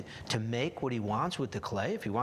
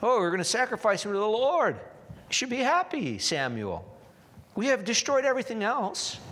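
hypocritical Saul; 9 semitones higher, 4 dB louder than usual. Retold or imitated. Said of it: "the cloak of hypocrisy".

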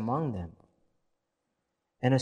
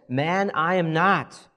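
insistent denial; 6 semitones higher, 6 dB louder, slower than usual. A narrator's reading. Peter denying to accuser.

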